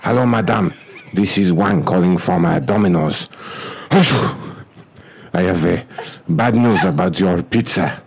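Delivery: clipped broken English, hammed-up Chinese accent; mock Chinese accent. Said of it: "as an Asian guy".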